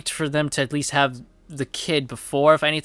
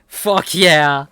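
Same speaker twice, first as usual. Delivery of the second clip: hyped cheer; 5 dB louder than usual. Real, not acted. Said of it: "repeats his own cheer".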